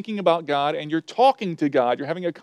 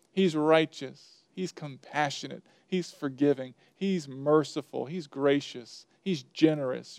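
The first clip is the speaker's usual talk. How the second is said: soft, measured listing; name each one softly, like a private prayer; quiet reverence; 2 semitones lower, 7 dB quieter than usual. Shown as a demonstration. Preacher showing worship by naming God's attributes, quiet reverence.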